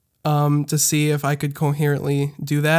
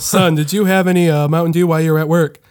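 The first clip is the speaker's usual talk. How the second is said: a hint of a stern cop, a bit louder; 4 dB louder than usual. Officer quizzing the nervous driver, mild stern tone. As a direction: press the question like a suspicious officer.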